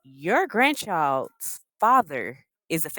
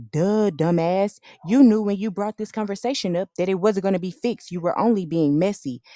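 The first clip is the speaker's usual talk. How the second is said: mock scolding; 3 semitones higher, 5 dB louder than usual. Ranting back at Jackie.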